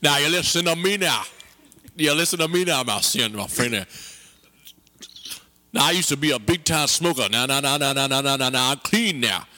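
put-on sermonise at the boy; preachy elder. Preachy Brendan character lecturing.

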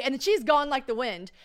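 ordinary delivery

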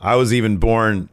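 mock-haughty wrestler voice; Santos. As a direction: boast like a wrestling champion. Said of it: "he says".

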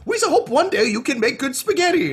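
high, put-on alien voice of a foster parent; Gungan voice. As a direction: raise the voice high and odd, like a kindly alien elder. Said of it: "the Gungans who raised him being like".

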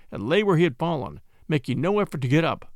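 ordinary delivery

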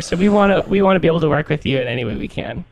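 put-on college girl voice. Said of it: "try to talk like a college girl".

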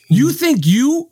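"You think you" stretched slowly, rising and scornful; slow, sneering disbelief at her nerve; contemptuous tone. Shown as a demonstration. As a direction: demo a condescending put-down. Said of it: "this is what my tone was".

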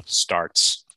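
Boston accent on starts. Real, not acted. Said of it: "taking your Boston accent".

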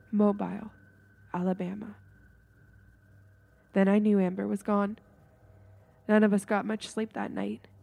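measured, dramatic storytelling with pauses; suspenseful read-aloud voice; ghost story narration. A narrator's reading. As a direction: read a spooky campfire tale, letting phrases hang.

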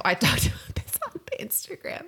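a hint of an elderly voice, whispered with a laugh; mock an old lady saying "the Instagram"; old-person phrasing. Wife teasing herself as elderly, in a faint whispered old voice. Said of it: "I'm, like, eighty".

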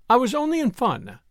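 high, mildly sorrowful plea. A narrator's reading. Wife excusing herself to her husband, sorrowfully. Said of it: "she said sorrowfully".

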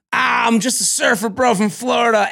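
surfer bro. Retold or imitated. Podcaster playing Johnny as a rom-com type, mock surfer bro. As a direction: call it out like a carefree surfer. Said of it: "He's the guy who".

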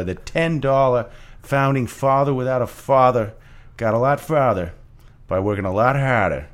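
Hamilton opening in a Boston accent. Shown as a demonstration. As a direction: rap it with a thick Boston accent. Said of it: "I'm gonna do it in a Boston accent".

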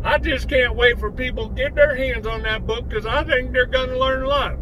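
Bubba voice. Acted. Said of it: "thank you, Bubba".

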